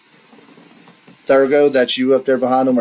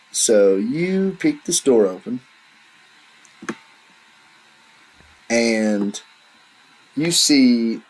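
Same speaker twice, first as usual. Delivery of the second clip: measured scene-setting with long pauses; deliberate tabletop storytelling; game master's narration; much slower than usual. A narrator's reading. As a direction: unveil the room slowly, phrase by phrase.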